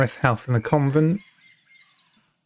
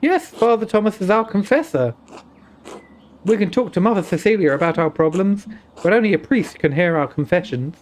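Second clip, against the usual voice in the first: put-on Indian accent; 3 semitones higher than usual. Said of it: "an Indian accent".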